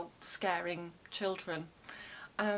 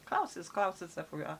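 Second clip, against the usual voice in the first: mock German accent; 4 semitones lower, faster than usual. Shown as a demonstration. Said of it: "my German accent".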